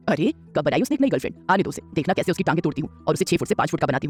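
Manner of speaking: a hint of a gentle old grandmother asking.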